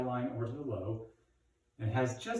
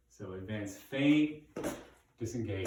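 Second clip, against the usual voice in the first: slow then fast. Shown as a demonstration. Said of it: "You can see how I go from slow to fast".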